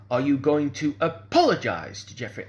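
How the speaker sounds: imitating a minister dictating an apology; ironclad demand. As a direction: demand it sternly, leaning hard on APOLOGISE. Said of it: "said it in exactly that tone".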